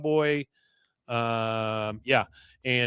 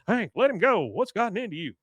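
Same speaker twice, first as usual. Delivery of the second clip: boss stepping in; 6 semitones higher, 3 dB louder than usual. Retold or imitated. Boss breaking up fight.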